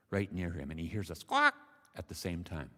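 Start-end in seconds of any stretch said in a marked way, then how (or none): 1.2-1.5 sudden loud squawk; imitated squawk. A narrator's reading. Storyteller acts out the bird's cry, sharp squawk. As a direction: squawk the word like a bird.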